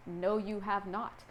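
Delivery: slow, emphatic denial. Acted. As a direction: spell it out slowly, leaving no doubt. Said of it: "I have to say emphatically".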